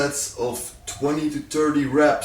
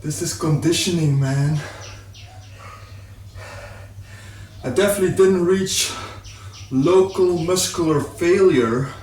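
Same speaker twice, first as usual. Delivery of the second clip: out of breath after a hard set; panting between words, winded; gasping for air. Real, not acted. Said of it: "I'm so out of breath".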